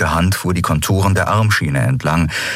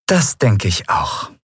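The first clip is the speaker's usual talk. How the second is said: slow, higher, sugary agreement; slowly savoured sweet reply; sugar-sweet; 6 semitones higher, slower than usual. A narrator's reading. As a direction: say it through a syrupy smile. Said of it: "Ihr Lächeln war zuckersüß".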